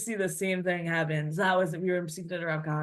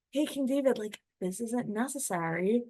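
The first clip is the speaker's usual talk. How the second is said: tempting voice; 3 semitones higher, 3 dB quieter than usual. Acted. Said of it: "this voice saying".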